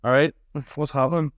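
casual local Northern Irish hello; lightly Northern Irish, greet a mate; everyday Northern Irish greeting. Shown as a demonstration. Contrasting with the airport voice, everyday Northern Irish. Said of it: "instead of".

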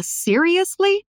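shocked question, drawn out and rising high; Daisy, shocked question. Acted. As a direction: ask it in slow, high disbelief. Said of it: "A Daisy tá chocada. Ela pergunta". (pergunta chocada, com tom subindo)

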